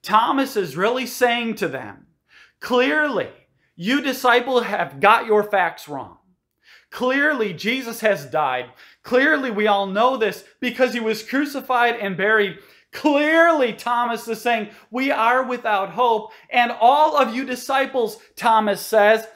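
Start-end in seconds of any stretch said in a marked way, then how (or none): 2.6-12.6 scornful Thomas. Retold or imitated. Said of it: "views the faith ... foolish and unwarranted". 14.9-18.2 condescending Thomas. Retold or imitated. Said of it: "foolish and unwarranted".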